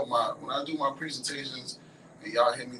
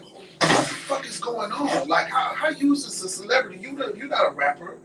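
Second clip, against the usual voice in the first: high, exasperated disbelief; incredulous challenge; 8 semitones higher, 5 dB louder than usual. Retold or imitated. Friend questions her sudden celebrity, incredulous and high. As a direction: demand answers, voice pitched up. Acts out baffled indignation at friend.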